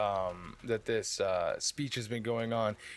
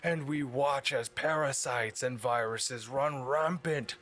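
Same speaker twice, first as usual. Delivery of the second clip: bullhorn speech; 3 semitones higher than usual. Acted. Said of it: "he points his bullhorn directly to".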